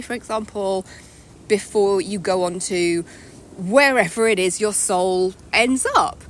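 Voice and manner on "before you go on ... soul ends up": breathless, slow and winded; out of breath. Real, not acted. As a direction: speak short of breath. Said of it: "I'm just out of breath".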